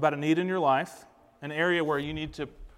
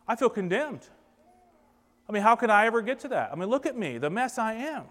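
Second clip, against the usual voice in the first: mock self-pity, mostly higher pitched; higher-voiced, put-upon protest; self-pitying unbeliever; 3 semitones higher than usual. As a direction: act out a complaining listener feeling sorry for themselves. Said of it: "You're back here thinking like this".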